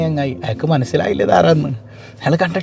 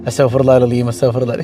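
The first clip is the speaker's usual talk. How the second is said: mother's murmured prayer; 7 semitones lower than usual. Retold or imitated. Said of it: "ഉമ്മച്ചി ഇങ്ങനെ".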